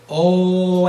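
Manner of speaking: a loud, round "Oh"; open oh. Shown as a demonstration. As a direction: sing out "Oh" with the throat narrowed. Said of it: "First go".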